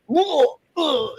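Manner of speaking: high-pitched mock startled whoa; retold startled whoa. Actor re-enacting a co-star's reaction on the first take, mock startled.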